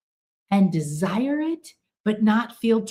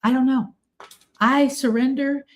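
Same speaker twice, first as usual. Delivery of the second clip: lighter surrender; 5 semitones higher than usual. Retold or imitated. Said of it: "if you say".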